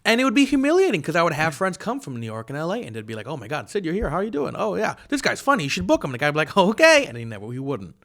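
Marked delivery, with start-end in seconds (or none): 3.3-6.1 high-pitched imitation of enthusiastic friends; excited friends. Friends greet him, praise him to booker. 6.6-7.1 high, loud mock "okay"; mock agreement. Booker humours the friends' suggestion.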